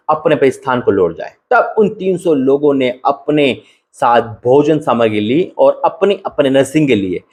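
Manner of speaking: measured Bible reading aloud; scripture reading. Acted. Preacher reading Gideon's story aloud to the church, measured. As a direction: read the passage to the church, steady.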